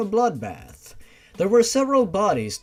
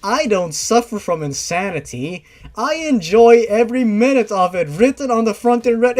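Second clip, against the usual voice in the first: excited reading; 5 semitones higher, 8 dB louder than usual. Real, not acted. Reading amused, rising volume.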